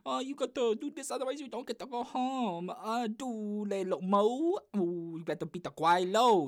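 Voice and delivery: high, pushy put-on coach voice; mock Chinese coach voice. Strict camp coach pushing kids to win, high mock voice. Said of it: "I can make that voice".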